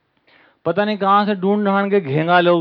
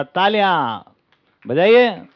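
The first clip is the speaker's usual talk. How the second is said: calling for applause; 4 dB louder, much slower than usual. Acted. Acted announcer calls for applause.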